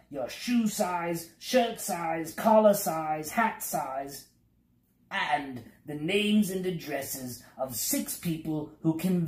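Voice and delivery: a lightly voiced pompous official reeling off a list; fussy census taker. Census taker questioning travellers at the stair, fussy officious voice. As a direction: rattle through forms like a self-important clerk.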